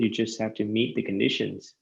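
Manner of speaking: casual, breezy run through the words; blasé. Real, not acted. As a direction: toss it off as if it's easy. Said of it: "sounded too blasé there".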